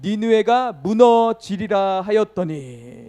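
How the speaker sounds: slow, loud, drawn-out scripture reading; prophet's proclamation, read out to a crowd; proclaiming scripture. Acted. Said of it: "이렇게 외칩니다".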